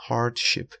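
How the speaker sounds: hardship with the stress on HARD; HARD-ship, second syllable unstressed; first-syllable stress. Shown as a demonstration. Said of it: "استرس سیلاب اول".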